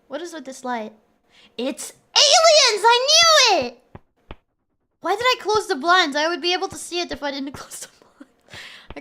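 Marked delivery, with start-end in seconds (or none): 1.6-3.8 high, loud, slow mock panic; hammed-up alien scare; mock alarm. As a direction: shout it like a cartoon conspiracy nut. Sudden light, panicked joke.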